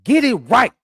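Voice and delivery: high, slow, loud yell of her own name; retold yell. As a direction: belt it out so the whole court hears. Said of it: "she just yelled out".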